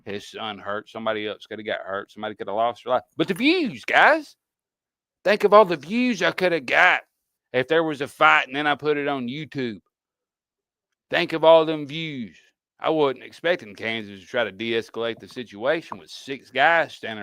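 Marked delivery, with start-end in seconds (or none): 3.2-12.4 mock greedy YouTuber. Mocking greed for views.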